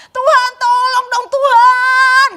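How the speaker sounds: high, loud, slow demanding cry; insolent plea. Acted. Impatient believer after a year, shouting at God insolently. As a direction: push God rudely, voice strained high. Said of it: "Suara kita sudah mulai kayak lancang sama Tuhan".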